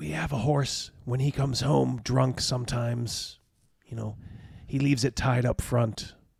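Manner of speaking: hoarse, rasping voice. A storyteller voices a woman in the house speaking to you, raspy voice. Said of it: "she kind of rasps".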